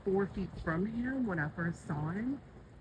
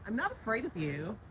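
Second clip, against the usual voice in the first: bold tone; 4 semitones higher than usual. Real, not acted. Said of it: "let's try it this way".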